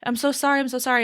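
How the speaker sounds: mock upset apologizing; apologetic. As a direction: repeat the apology as a flustered guy. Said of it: "he was so apologetic, so upset".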